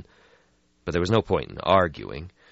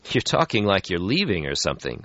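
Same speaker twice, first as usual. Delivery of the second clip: put-on young vampire voice; 3 semitones higher than usual. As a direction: brush off the gloom. Lucky voiced in story.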